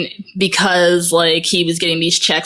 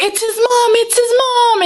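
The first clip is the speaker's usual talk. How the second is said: high, urgent mock alarm; urgent Lois. Lois Lane bursting in to explain, high mock urgency. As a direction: blurt it out in a hammed-up rush. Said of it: "And she's like".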